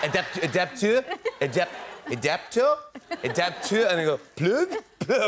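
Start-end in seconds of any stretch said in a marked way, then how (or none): 0.0-3.9 halting mock French. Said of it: "I'm doing this". 4.4-5.2 higher, pleading "Plug? Plug."; pleading tourist. Retold or imitated. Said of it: "I'm doing this to the guy".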